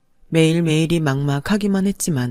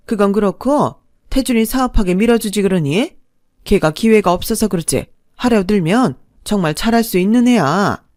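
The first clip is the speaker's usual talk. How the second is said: a touch louder, pressing mother-in-law; mother-in-law pressing her daughter-in-law for money, a touch louder and insistent; pushy mother-in-law; 3 semitones higher, 5 dB louder than usual. Acted. Mother-in-law pushes son's business.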